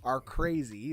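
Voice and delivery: loud laugh while talking; laughing loudly. Real, not acted. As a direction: talk through a big laugh. Laughing through the sentence.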